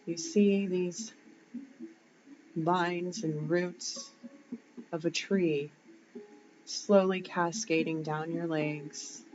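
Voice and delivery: unhurried visualisation voice, lingering on the words; guided meditation. Shown as a demonstration. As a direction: guide them gently through the imagery, pausing between phrases. Leads a grounding visualisation.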